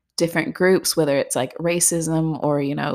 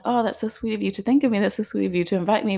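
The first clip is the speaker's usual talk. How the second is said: quick, higher-pitched mock-sweet thanks; polite gushing; 4 semitones higher, faster than usual. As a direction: gush politely before turning it down. Retells politely receiving an invitation.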